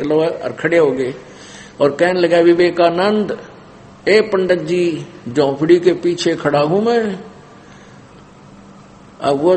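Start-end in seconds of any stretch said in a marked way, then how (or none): 2.4-7.2 raised, higher storyteller's call. Retold or imitated. Boy behind the hut giving himself up to the pandit, retold calling out. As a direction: call out to the pandit, lightly acted. Kabir calls out to his pursuers.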